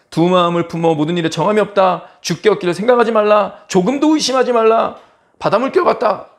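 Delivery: loud, high-pitched declaiming; forceful warning. Acted. Preacher repeating the repetitive verse to stress its severity, forceful. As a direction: hammer out each prohibition like a verdict. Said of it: "굉장히 강력한 거예요".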